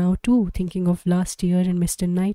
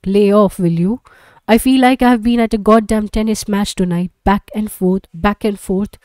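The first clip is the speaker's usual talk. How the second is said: fed-up; 6 dB louder than usual. Acted. Husband snaps back at Beth.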